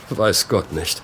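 slow, with a small huff; understated, drawn-out agreement; musing agreement. Acted. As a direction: agree slowly, with a breath of a laugh. Colfax ponders Benson's war years.

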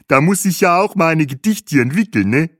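put-on high, cheerful accented German; jovial tour guide. Guide says he must write poems too, high and jovial. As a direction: joke along in a high friendly voice. Guide jokes back at the rhymer.

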